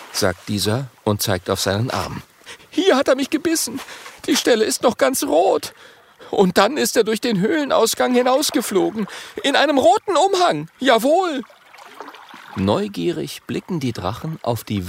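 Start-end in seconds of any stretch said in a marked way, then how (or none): 2.7-11.4 high, loud agitated dragon voice; excited little dragon, much higher; spiny dragon. Acted. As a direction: squeal it out, upset. Stacheldrache keeps voice.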